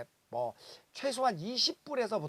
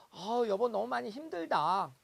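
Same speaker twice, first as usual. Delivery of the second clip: mock lip service; 4 semitones higher than usual. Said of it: "립 서비스를 하죠".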